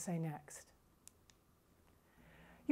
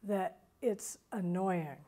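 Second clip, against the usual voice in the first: slow, dragging delivery; too slow; much slower than usual. Shown as a demonstration. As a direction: drag each word out to show the fault. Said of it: "speak so slowly".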